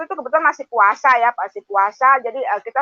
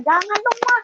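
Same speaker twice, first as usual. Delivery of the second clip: high imagined pleading; child begging her not to, higher; mild pleading, pitched up; wished-for plea; 11 semitones higher than usual. Pretend. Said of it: "Saya berharap anak saya melarang".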